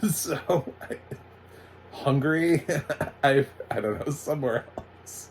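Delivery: can't keep a straight face while guessing; real giggles between the words; laughing while guessing. Real, not acted. Cracks up guessing the accent's origin.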